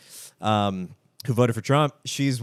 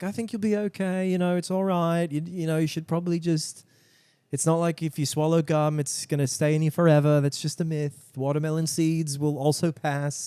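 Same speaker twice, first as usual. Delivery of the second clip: light higher voice, calm and soothing; level-headed reassurance; 4 semitones higher than usual. Retold or imitated. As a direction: talk her down gently. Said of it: "she's very level-headed".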